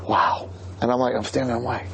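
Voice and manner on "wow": tourist's awed wow. Retold or imitated. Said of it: "they have this look of awe".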